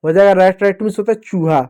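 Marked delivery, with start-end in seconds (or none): 0.3-0.6 "रैट" with an open ai between r and t; "ai" vowel. Shown as a demonstration. Teacher sounding out RAT for pupils, open ai in "रैट". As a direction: blend "रैट" as one word, vowel ai. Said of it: "ए का ऐ की मात्रा लिख दो".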